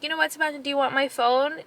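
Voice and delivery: coaxing mom. Retold or imitated. Offers phone to crying son.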